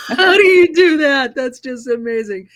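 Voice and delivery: high, loud Brummie impression with a laugh; laughing Birmingham accent. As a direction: copy the Birmingham host's mouth shape. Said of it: "the way she does her mouth".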